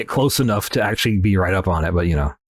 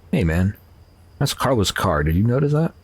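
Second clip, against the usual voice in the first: ordinary delivery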